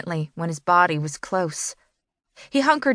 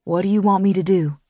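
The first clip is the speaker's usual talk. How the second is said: softly; 3 dB louder, faster than usual. A narrator's reading. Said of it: "he asked softly".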